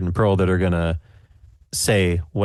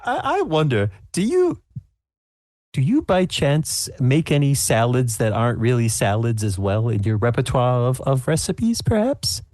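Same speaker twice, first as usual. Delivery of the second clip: high, chatty granny; lightly voiced old lady; 5 semitones higher than usual. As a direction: coax recipes out of her sweetly. Sue asking about recipes.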